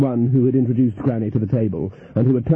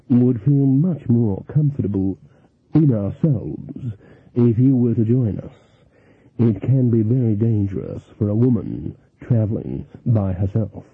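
smooth card sharper. Acted. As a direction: charm her like a smooth swindler.

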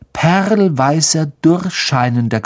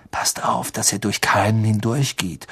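nervös; 3 semitones lower, 6 dB quieter than usual. Acted. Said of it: "sagte Ron nervös".

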